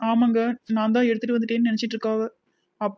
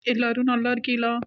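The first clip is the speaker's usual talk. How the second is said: crying; 2 semitones higher than usual. Acted. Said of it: "சின்ன பொண்ணு, அழாம பேசுமா".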